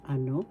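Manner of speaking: ano with the accent on "no"; stress on second syllable. Shown as a demonstration. Teacher showing where the accent is, stress on second syllable. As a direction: put the weight at the end of ano. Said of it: "where the accent is, so you pronounce".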